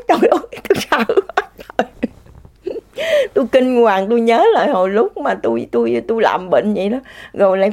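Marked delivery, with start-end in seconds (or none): 0.0-1.5 high, laughing cry of fear; real laughter through a frightened exclamation; laughing fright. Real, not acted. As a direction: laugh out how scared you were. Laughing while recalling fright.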